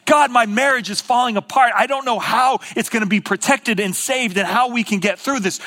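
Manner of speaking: urgent, acted prayer; crying out. Preacher voices people in crisis praying, crying out. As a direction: pile up the pleas to a silent God. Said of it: "praying and crying out".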